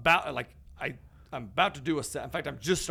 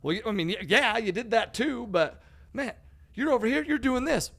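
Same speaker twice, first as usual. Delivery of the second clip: 1 imitating gym guy; 8 semitones higher, 4 dB louder than usual. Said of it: "He's like".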